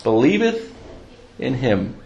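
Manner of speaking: reverent Bible reading; scripture reading. Acted. Reads John 3:16 aloud.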